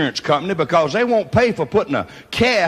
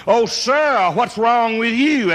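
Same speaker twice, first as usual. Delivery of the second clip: mock polite question; 6 semitones higher, slower than usual. Trooper asks the injured uncle.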